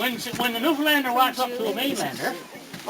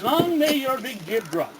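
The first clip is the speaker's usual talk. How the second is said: Newfoundland saying; slower than usual. Shown as a demonstration. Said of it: "Another thing we says in Newfoundland".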